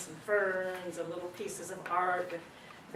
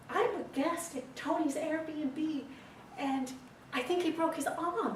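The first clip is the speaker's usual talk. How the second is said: high-pitched mock British accent; imitated British accent, high and fretful; British woman; 8 semitones higher than usual. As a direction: put on a flustered British lady's voice, much higher. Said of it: "woman's voice with a British accent".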